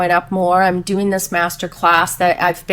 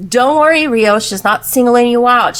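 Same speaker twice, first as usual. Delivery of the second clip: mock husband; 3 semitones higher, 5 dB louder than usual. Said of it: "he goes".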